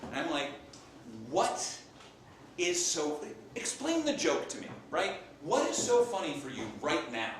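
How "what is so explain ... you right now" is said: indignant demand with pauses; mock-outraged questioning; confrontational. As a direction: confront them, pushing up in pitch. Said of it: "I confront him".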